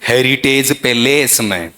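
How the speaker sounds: slow "पैलेस" as pe-LAYS; mock a learner stretching "पैलेस" on the second syllable; drawn-out long E in "पैलेस"; mocked wrong pronunciation. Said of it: "ऐसा नहीं होना चाहिए".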